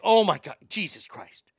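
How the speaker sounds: retold gasp of amazement; mock excitement. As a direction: play grandma amazed, falling off at the end. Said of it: "just so excited".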